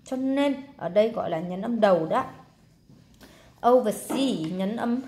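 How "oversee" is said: "Oversee" with weight on "see"; final-syllable stress. Shown as a demonstration. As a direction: lean on the last syllable of "Oversee". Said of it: "nhấn âm sau này".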